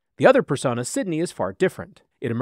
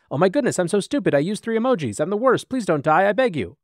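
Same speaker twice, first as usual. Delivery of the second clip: mock desperate pleading; 5 semitones higher than usual. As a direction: plead like a melodramatic chatbot. AI chatbot begging, peak panic.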